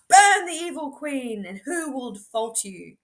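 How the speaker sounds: loud demand, trailing off; rally the crowd, then soften; shout. Acted. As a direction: mob cry fading. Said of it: "you shout".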